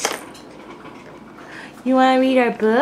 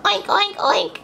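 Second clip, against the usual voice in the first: pig oink; 4 semitones higher than usual. Shown as a demonstration. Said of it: "Do it".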